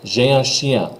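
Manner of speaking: J'ai un chien with a nasal un; teacher demo; French pronunciation. Shown as a demonstration. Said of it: "One more time".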